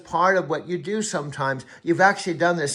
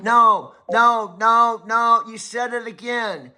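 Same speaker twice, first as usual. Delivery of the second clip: raised pitch, louder repeated no; exasperated no; 5 semitones higher, 5 dB louder, slower than usual. Real, not acted. Coach loudly cutting off his AI assistant. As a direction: cut him off, loud and fed up.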